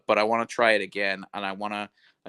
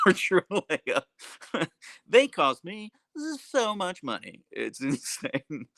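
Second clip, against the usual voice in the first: higher, slow, laughing through the words; 8 semitones higher, slower than usual. Real, not acted. Telling chat the huskies cost so much, laughing. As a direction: giggle at how much the dogs cost. Laughing about dog costs.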